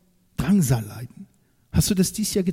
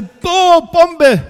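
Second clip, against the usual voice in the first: high, loud gushing "Boah, Bombe!"; mock amazed cheer; 13 semitones higher, 10 dB louder than usual. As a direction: ham up the gullible crowd's wow. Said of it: "und dann sagen schon alle".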